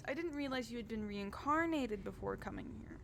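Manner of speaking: high, bubbly noble lady; cheerful Adela. Acted. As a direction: chirp it up like an eager hostess. Adela apologises.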